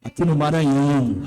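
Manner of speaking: emphatic repeat. Acted. Preacher proclaiming God's plan for Maranhão, loud and firm. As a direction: hammer home "Aqui no Maranhão". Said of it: "preacher repeats for emphasis".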